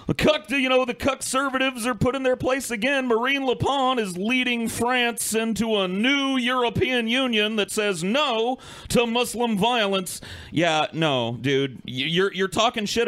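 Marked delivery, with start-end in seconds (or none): 0.1-10.2 lightly hammed-up gloating commentator; mock triumphant pundit. Imitating the YouTuber's imagined victory video, mock gloating. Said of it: "Razor Fist would be making a very different video".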